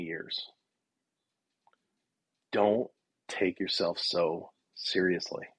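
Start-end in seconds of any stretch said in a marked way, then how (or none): 2.5-5.5 slowed down and earnest; slow sincere advice. Real, not acted. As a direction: deliver it slowly as a life lesson. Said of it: "a rule that has served me so well".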